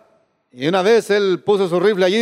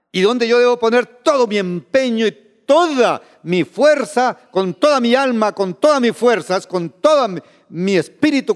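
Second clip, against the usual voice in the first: raised, emphatic preacher's voice; fervent preaching; 5 semitones higher than usual. Real, not acted. Preacher urging total devotion to God's will, fervent. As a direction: drive each phrase home with mounting fervour.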